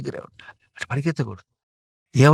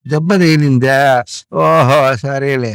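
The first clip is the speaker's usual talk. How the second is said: calm shrug-off; 6 dB louder, much slower than usual. Shown as a demonstration. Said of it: "అనాలి".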